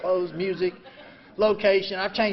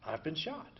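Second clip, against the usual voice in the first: much softer, dazed realization; stunned inner thought; 3 semitones lower, 13 dB quieter than usual. Retold or imitated. Soldier realizing he was hit, stunned hush. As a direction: say it as if it just dawned on you. First thought after being shot.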